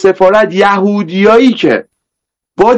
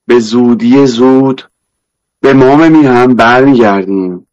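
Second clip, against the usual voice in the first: put-on Isfahani accent; 5 semitones lower than usual.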